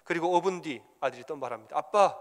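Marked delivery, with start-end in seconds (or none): 1.8-2.2 loud call; loud call to dad. Retold or imitated. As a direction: son yells for his father once more. Son calls again.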